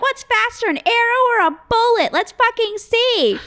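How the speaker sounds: high, loud, goading challenge; unhinged re-enacted standoff shout; shouted taunt. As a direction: yell it like a wild dare, stretching the end. Acted taunt in retold standoff.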